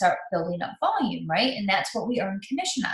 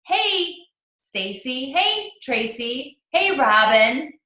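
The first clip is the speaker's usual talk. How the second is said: 1 friendly first-name greeting; 4 semitones higher, much slower than usual. Shown as a demonstration. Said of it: "I usually feel a lot more comfortable saying".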